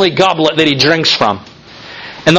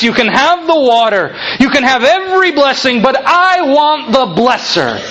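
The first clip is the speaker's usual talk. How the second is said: impassioned sermon climax, pitched up; fervent preaching; 4 semitones higher than usual. Real, not acted. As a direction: preach it with rising conviction. Preaches with mounting fervour.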